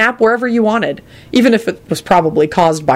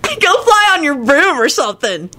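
high, slow, giggling slacker; high voice with laughter; laughing stoner; 9 semitones higher than usual. Acted. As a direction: chuckle through the advice. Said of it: "started cackling".

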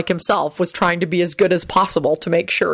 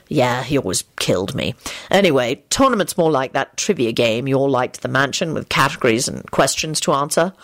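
lower, easygoing man's voice; lightly voiced Lupin; 4 semitones lower than usual. Lupin explains the game to Elizabeth, easygoing. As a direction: explain casually in a lower register.

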